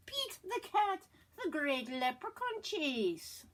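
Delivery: lively storybook read-aloud; reading to children. Acted. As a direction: read it out to the class. Reads picture book aloud.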